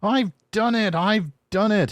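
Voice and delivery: very high, breathless cheer; panting triumph. Acted. James reaching the top, panting in triumph. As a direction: gasp it out, thrilled. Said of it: "he panted".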